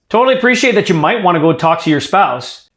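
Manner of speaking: "might" emphasized within an easy, conversational sentence; stress on MIGHT. Shown as a demonstration. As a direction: lean on the word "might". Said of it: "put some emphasis on this word".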